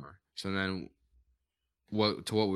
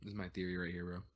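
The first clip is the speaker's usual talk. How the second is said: talking through a yawn; stifled yawn mid-sentence; 2 semitones lower, 11 dB quieter, much faster than usual. Real, not acted. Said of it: "Sorry for the yawns".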